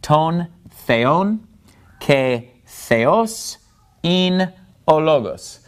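careful, separated Greek, "theon" stressed on "on"; phrase by phrase, "theos" stressed on its second syllable; stress on accented syllables. Shown as a demonstration. Teacher modelling the accents, careful "Ton theon, ke theos". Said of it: "the accent is on the second syllable".

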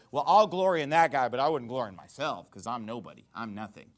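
feigned self-deprecation with a sarcastic edge. Acted. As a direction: put on mock humility, starting firm then dropping away. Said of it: "he's just being sarcastic when he says".

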